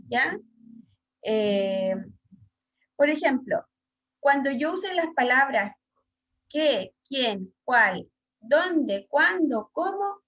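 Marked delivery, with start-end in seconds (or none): 6.5-10.2 "qué, quién, cuál, dónde, cuándo, cómo" each stressed and set apart; accented question words. Shown as a demonstration. Teacher lists accented question words, stressing each of "qué, quién, cuál, dónde, cuándo, cómo". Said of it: "siempre va a llevar acento".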